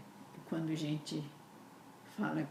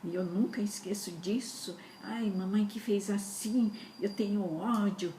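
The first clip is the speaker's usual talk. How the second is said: resentful complaint; 2 semitones higher than usual. Retold or imitated. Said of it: "e eu com mágoa tudo do papai".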